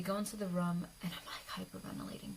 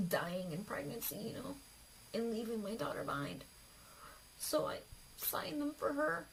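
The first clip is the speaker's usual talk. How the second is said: choked-up, higher-pitched voice; tearful; 4 semitones higher, 4 dB quieter than usual. Real, not acted. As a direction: hold back tears as you tell it. Tearful telling of risking death.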